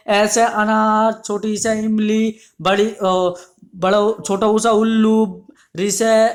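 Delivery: slow sing-song chant of अनार, छोटी से इमली, each word stretched out; small children reciting. Retold or imitated. Teacher imitating small pupils, slow drawn-out chant. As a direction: mimic little pupils drawling the alphabet rhyme. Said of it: "छोटी कक्षाओं में जब पढ़ते हैं बच्चे तो ऐसे ही बोलते हैं".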